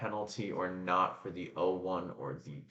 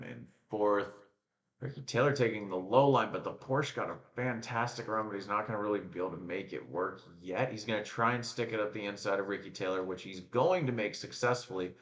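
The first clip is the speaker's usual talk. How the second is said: live play-by-play; 3 dB louder than usual. Real, not acted. Commentator following Porsche and Ricky Taylor, excited play-by-play. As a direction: call the overtake as it unfolds, rising in excitement.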